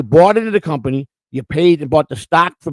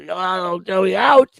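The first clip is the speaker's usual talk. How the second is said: mimicked catchphrase, swelling at the end; teasing impression with a rising holler; Big Boss; 3 semitones higher, much slower than usual. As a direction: build to a drawn-out final word. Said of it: "Big Boss".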